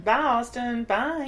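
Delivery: lightly put-on goodbye; put-on silly voice. Host jokingly waving off the boyfriend, mildly silly voice. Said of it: "Why do I do that voice?".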